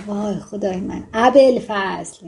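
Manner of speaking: mock astonishment, last word drawn out; understated gasp-like exclamation of amazement; astonished. Shown as a demonstration. Teacher giving an example of astonished dialogue, mildly astonished. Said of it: "شگفت زده و حیرت زده گفت".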